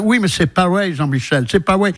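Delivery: put-on light American accent in French, rolled r's dropped; a touch of American twang on the French. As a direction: imitate an American boss speaking French. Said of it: "faites-nous-le avec l'accent".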